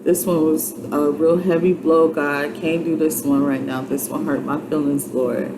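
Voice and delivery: tearful prayer. Shown as a demonstration. Alone in another room, quietly pleading with God through tears. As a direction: pour the hurt out quietly to the Lord. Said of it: "just cry and talk to God".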